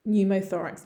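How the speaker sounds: "Pneumothorax" with silent P, said NEW-mo-THOR-ax; pronunciation model. Shown as a demonstration. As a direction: model "Pneumothorax" clearly, starting on an N sound. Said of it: "just think pneumothorax".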